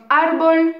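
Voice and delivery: "árbol" with the accent on the opening A; stress on first syllable. Shown as a demonstration. Teacher shows students a written accent word, stressing the A of "árbol". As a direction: hit the A of "árbol", then let "bol" drop. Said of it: "donc l'accent va être sur le A".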